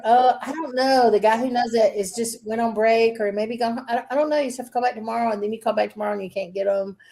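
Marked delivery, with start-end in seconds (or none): 0.0-5.3 higher, airy imitation of a clueless clerk. Mocking the tire shop girl who shrugs him off. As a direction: lightly mimic an unhelpful, unsure worker. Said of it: "the girl's like".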